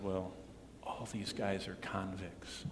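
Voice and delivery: low, hushed confidential aside; retold whisper. Pastor confiding in the waitress, retold whisper. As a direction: drop the voice and slip it out slowly. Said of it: "I whispered to her".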